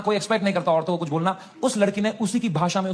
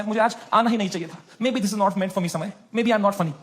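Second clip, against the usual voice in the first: retold tearful confession. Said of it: "रोते-रोते मुझे अपनी insecurity उसने कन्फेस करी".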